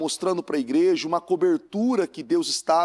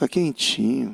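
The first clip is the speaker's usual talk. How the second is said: smooth, gentle, lulling, soothing voice; 5 semitones lower than usual. Acting out a voice that coaxes staying in bed: soft soothing voice. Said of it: "Aquela voz suave".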